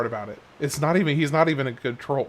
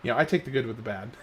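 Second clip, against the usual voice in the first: rushed, half-laughing mumble; quick giggly throwaway; laughing through it; 2 semitones lower, faster than usual. Real, not acted. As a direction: tumble it out fast while chuckling. Fumbling line, laughing through it.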